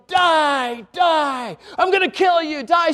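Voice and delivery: mock yelling. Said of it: "And somebody yelling".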